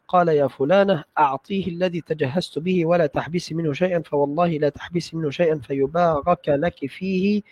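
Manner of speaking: measured, fully vowelled classical Arabic recitation; formal hadith reading. Acted. Student reading hadith to his sheikh, formal recitation. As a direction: read the text out carefully and steadily. Reads next chapter aloud.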